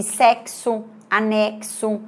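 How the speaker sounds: sexo, anexo with the X said as K-S; sexo, anexo slowly, sounding both K and S; X as two sounds. Shown as a demonstration. Teacher showing X has two sounds, sexo and anexo with clear K-S. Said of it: "que tem dois sons".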